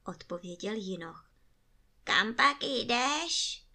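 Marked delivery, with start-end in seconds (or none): 2.0-3.6 put-on slow, drawn-out old crone; old woman voice. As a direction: ask it slowly like an ancient ferrywoman. Old ferrywoman asks the youth.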